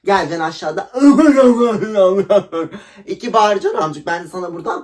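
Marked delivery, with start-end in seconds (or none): 1.0-3.0 loud burst of laughter. Real, not acted. Laughing at her ex's threat, loud laugh. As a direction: let a big laugh out.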